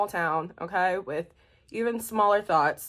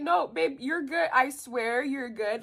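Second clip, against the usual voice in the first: damage control; 6 semitones higher, slower than usual. Retold or imitated. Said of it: "trying to do damage control".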